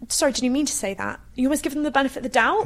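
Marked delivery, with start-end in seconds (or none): 0.1-1.2 mild, inviting query; gentle questioning. Shown as a demonstration. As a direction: ask it kindly, giving the benefit of the doubt. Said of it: "You gotta be like".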